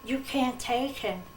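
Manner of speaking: mildly imploring the Lord to spare her son; gently retold plea to the Lord; retold begging. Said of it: "And I begged".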